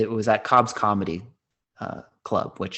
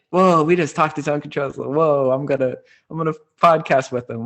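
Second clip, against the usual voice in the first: excited; 6 semitones higher, 6 dB louder than usual. Retold or imitated. Leaving high as a kite.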